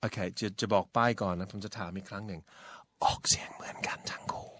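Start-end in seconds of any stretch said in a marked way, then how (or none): 3.0-4.5 unvoiced stage whisper; whispered hint. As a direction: whisper it like a secret answer. Slips the learner the answer as a hint. (กระซิบบอกใบ้)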